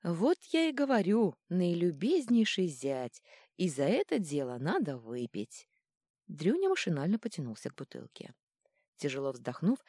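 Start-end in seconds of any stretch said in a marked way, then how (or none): 0.0-5.7 unctuous. Acted. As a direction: lay the sweetness on thick. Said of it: "елейно заметил".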